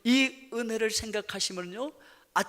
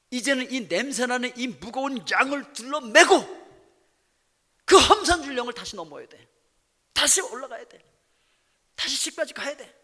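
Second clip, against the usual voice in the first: 1 straining lament; 5 semitones higher, 7 dB louder than usual. Acted. Burden of carrying sheep home.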